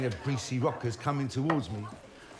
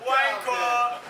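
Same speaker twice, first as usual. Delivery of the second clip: higher, louder mocking yell; jeering shout; 7 semitones higher, 4 dB louder than usual. School kids jeering at the narrator together, loud and mocking. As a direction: hurl it at him as a gang. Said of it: "they point and shout".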